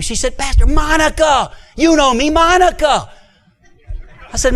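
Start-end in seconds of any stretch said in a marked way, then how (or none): 0.4-3.1 eager woman voice. Retold or imitated. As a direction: sing out her own name, high and eager. Monica introduces herself, voiced.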